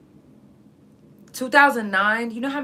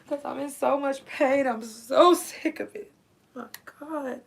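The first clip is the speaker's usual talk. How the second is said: holding back tears; 4 semitones higher than usual. Real, not acted. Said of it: "Ooh, I'm trying not to cry".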